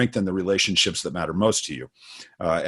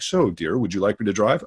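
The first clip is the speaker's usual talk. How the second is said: a touch of overly formal courtesy, slightly lower; mock polite husband; 3 semitones lower than usual. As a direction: lightly play the prim gentleman asking "dear". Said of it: "And that's how we talk".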